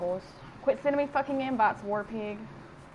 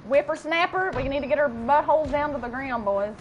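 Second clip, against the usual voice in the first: calling out loud; 3 semitones higher, 5 dB louder than usual. Real, not acted. Calling out to squad.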